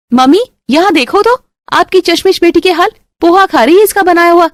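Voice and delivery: high, gleeful tattling call; tattling sister-in-law. Acted. Roshni calling the mother-in-law to snitch, high and gleeful. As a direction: snitch with relish.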